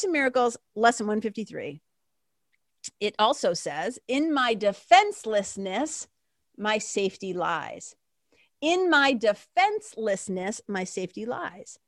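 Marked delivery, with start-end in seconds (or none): 4.1-11.8 slow, measured scripture reading; slow reverent reading. Real, not acted. Reading the lesson to her listeners, slow and reverent. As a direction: let each phrase land slowly.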